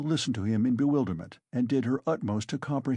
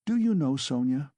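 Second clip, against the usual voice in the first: sudden high, loud start; sudden conviction; 3 semitones higher, 3 dB louder than usual. A narrator's reading. Raskolnikov suddenly turning to Sonia, with conviction. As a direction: burst in with certainty. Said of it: "he said suddenly with conviction".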